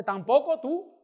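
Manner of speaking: hammed-up high, loud outburst; cursing tirade. Woman at the door cursing the evangelist, loud mock tirade. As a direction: yell it like an irate woman cursing someone out. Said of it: "Me empezó a maldecir".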